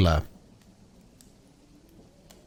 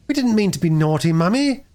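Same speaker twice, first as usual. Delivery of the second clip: sobbing; 9 semitones higher than usual. Acted. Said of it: "sobbed Bobby".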